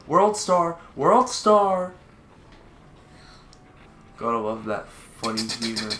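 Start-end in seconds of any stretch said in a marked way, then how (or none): 0.1-1.9 shouting. Pretend. Calling out a meme.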